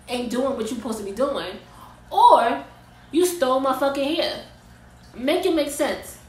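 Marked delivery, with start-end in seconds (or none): 2.1-6.2 louder, heated "you stole my fucking hair"; angry accusation. Real, not acted. Ranting at the stylist over the stolen hair, angry and loud. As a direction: confront the stylist, voice rising. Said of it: "Because I'm getting mad".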